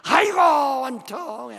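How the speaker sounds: loud, slow lament of a ghost being evicted; bitter ghost wailing its exit. Retold or imitated. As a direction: moan and complain as you go. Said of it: "아주 그냥 시원시원하죠".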